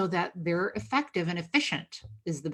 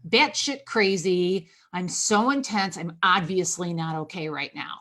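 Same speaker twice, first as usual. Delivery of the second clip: owning it. Shown as a demonstration. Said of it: "just own it. Say".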